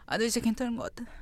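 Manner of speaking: soft, quick tipsy murmur; drunk voice. Retold or imitated. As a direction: toss it off like a drunk friend. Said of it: "그 득키님 톤이 있는데". (취한 친구 흉내 목소리)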